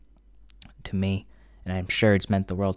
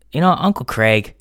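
laughing; 3 semitones higher, 6 dB louder than usual. Real, not acted. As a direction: laugh through the sudden realization. Laughing at a sudden realization.

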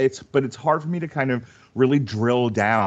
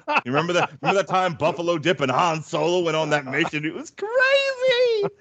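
mock excited recollection; 7 semitones higher than usual. Joking fake nostalgia.

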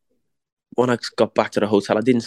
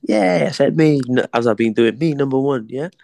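higher, mock-cocky reply; his own retold reply; 4 semitones higher than usual. Boxer brushing off his mate's news, higher and mock-cocky. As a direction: answer back like the cocky champ. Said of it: "and I'm like".

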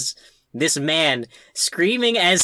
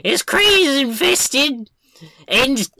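raised, slow exasperated complaint; frustrated Pip; 10 semitones higher, 4 dB louder, slower than usual. Retold or imitated. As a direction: groan it out with annoyance. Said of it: "and then it's like".

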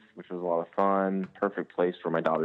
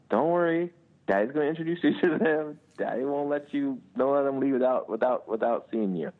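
put-on higher-pitched voice soothing a small child; reassuring dad; 7 semitones higher than usual. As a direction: gently reassure your little daughter, pitched up. Dad reassuring crying daughter.

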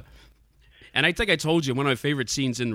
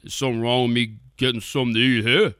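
Brian Dennehy impression; 3 dB louder than usual. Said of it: "It's a terrible Brian Dennehy bri-, impression".

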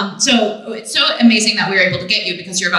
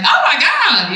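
a high, laughing "Oh my God"; showing mom's vocal swoops; 7 semitones higher, slower than usual. Shown as a demonstration. Guest demoing her mom's Southern-tinged vocal variation, high and laughing. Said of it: "vocal variation".

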